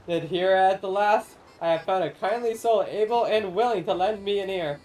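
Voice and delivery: lightly voiced grand old spirit, solemn and theatrical; ancient corn spirit. Corn spirit pleading with the traveler to feed the people, lightly grand. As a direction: speak as a lofty forgotten guardian of the harvest.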